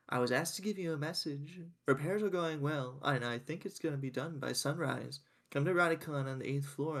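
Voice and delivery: stilted, oddly careful diction; weirdly enunciated. Acted. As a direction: pronounce every word a bit off. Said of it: "I could tell that was weirdly enunciated".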